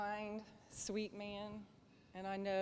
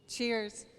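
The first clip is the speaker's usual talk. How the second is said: toast call; 2 semitones higher, 6 dB louder than usual. Real, not acted. Raising a toast to couple.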